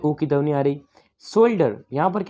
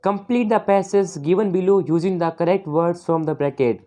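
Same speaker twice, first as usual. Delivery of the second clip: slow question reading; much slower than usual. Acted. Reads exam instruction slowly.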